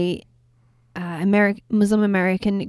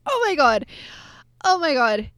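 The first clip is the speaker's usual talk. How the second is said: gushing, a bit higher; excited; 5 semitones higher than usual. Real, not acted. Host admitting she's overexcited about the film, gushing. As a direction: swept up in fan delight. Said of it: "Sorry, I'm getting a bit excited".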